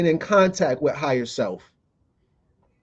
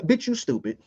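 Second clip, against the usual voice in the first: inner voice; 3 semitones higher, 8 dB quieter than usual. Shown as a demonstration. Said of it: "be like".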